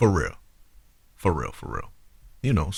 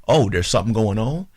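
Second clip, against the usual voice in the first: affronted, incredulous questioning; 2 semitones higher than usual. Retold or imitated. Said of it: "you made him feel like".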